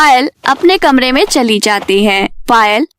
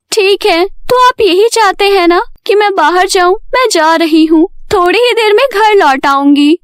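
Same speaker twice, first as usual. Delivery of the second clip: lightly voiced, higher-pitched daughter; reluctant Payal; 5 semitones higher than usual. Payal agrees to go out for her parents, reluctant. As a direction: give in, pitch a little raised.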